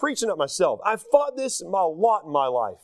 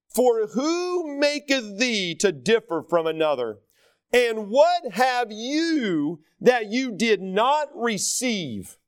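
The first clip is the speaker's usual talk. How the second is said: scripture reading; slower than usual. Acted. Pastor reads Bible verse aloud.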